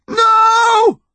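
high, anguished cry of no; calling out. A narrator's reading. Connor as his mother slips, long anguished shout. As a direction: call out in panic. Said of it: "he called".

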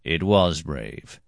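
slow, offhand agreement; casual. Acted. Master calmly settles the quarrel, slow and casual. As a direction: drop it lightly and slowly. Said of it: "said my master casually".

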